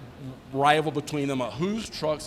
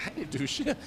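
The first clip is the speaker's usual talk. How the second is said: laughing confession; 5 semitones higher, 5 dB quieter than usual. Real, not acted. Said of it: "I'm sorry".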